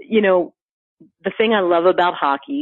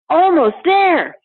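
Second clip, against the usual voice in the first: cheery marathoner; 11 semitones higher, 5 dB louder, much slower than usual. Retold or imitated. Marathoner's upbeat inner voice.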